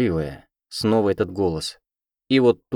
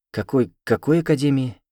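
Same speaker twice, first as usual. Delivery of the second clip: higher, louder, alarmed re-asking; frightened question; 6 semitones higher, 4 dB louder than usual. A narrator's reading. Girl asking the giant cat again, frightened. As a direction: blurt it out in fright. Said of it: "испуганно переспросила я".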